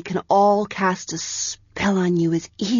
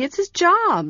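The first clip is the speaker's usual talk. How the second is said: reasonably; 12 semitones higher than usual. A narrator's reading. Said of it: "Penthi said reasonably".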